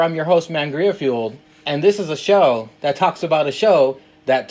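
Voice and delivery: upbeat show-host welcome; podcast host intro. Acted. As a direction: announce the guest like a host.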